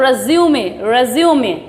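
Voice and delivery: रिज्यूमे said as "ruh-ZYOO-may"; teacher repeats रिज्यूमे in three syllables; word demo. Shown as a demonstration. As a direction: keep the yoo in रिज्यूमे. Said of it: "क्या बोलते हैं इसको".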